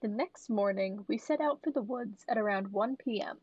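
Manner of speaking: even, measured storytelling read; story narration. A narrator's reading. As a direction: read a childhood account aloud. Reads a posted story aloud.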